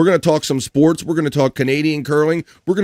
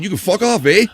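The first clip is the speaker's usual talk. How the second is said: higher mock-Canadian retort with tacked-on "eh"; 5 semitones higher than usual. Host demonstrating the curler's tone, mock Canadian indignation. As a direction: imitate an indignant Canadian brushing someone off. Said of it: "in his tone, but he didn't say it".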